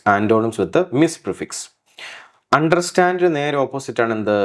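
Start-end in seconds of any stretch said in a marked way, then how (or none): 0.1-1.7 Antonyms with miss prefix, very slow with miss stressed; slow title read. Shown as a demonstration. Teacher reads the category title slowly to the class. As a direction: dictate the heading slowly. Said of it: "slow title read".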